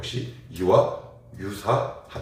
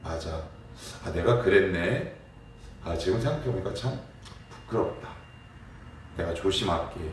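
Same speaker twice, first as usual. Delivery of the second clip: humble confession; 5 dB quieter than usual. Retold or imitated. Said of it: "하나님, 아니면 사람에게".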